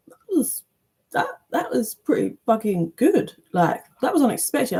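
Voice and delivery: mock amazement at your own work; pleasantly surprised. Imagined crafter impressed by what they made, pleasantly surprised. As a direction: voice jumps high, then settles.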